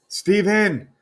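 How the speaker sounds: a mother shouting at her son in alarm; alarmed mom call. Acted. Mom rushing in and calling out to Steven, high alarmed call.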